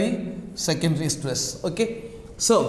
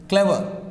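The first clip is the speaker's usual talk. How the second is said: "clever" stressed at the start, then falling; stress on first syllable. Shown as a demonstration. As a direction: lean on the opening syllable of "clever". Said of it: "we give the stress here".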